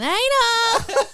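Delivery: high, loud joking call; mock proud naming; mock announcement. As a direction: blurt the silly name out high. Repeated name.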